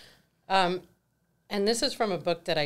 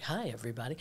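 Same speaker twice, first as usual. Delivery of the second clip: lightly acted cheery public greeting; putting on a great front; 4 semitones lower, 5 dB quieter, faster than usual. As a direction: greet the room as if all is great. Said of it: "like, looking so great".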